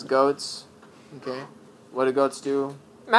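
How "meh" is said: goat bleat. Retold or imitated. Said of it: "I made a pretty good goat impression".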